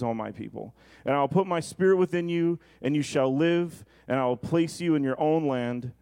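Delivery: measured, solemn reading of scripture. Acted. Reads scripture before sermon.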